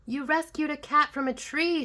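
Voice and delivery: put-on high, eager boy's call; mildly shouted, as a delighted child; excited shout. A narrator's reading. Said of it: "shouted Jack".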